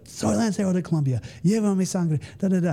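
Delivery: high-pitched mock recruit chant; imitated yelling. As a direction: belt out the creed with the crowd, trailing into filler syllables. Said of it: "I'd be like everyone else yelling".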